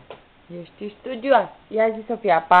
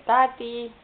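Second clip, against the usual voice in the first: moderately raised, drawn-out call; strigat ușor; 4 semitones higher than usual. Shown as a demonstration. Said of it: "Ia strigă". (strigă-l ușor pe tati)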